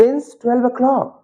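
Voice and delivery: very slow, word by word; slow model sentence. Shown as a demonstration. Teacher dictating the answer, very slow. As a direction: dictate it slowly. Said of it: "तो कैसे बोलेंगे हम?".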